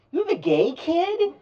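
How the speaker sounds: high, loud, astonished; surprised question. Retold or imitated. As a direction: blurt it out in surprise. Realising what caller means.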